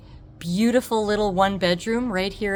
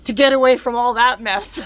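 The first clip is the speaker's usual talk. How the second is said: loud and higher, breaking into laughter; laughing through the surgeon's joke; surgeon's punchline; 6 semitones higher, 9 dB louder than usual. Retold or imitated. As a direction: deliver the punchline then laugh. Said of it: "He goes".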